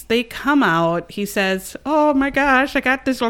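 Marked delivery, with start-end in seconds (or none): 1.9-3.3 bad English accent. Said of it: "not a very good English accent at all".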